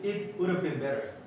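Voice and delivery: "would have" linked as "would of" in "it would have been better"; slow sentence with "have" shrunk to a weak "uv"; reduced have. Shown as a demonstration. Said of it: "have로 발음하지 말고". ("would have"를 "우러브"로 줄여 발음)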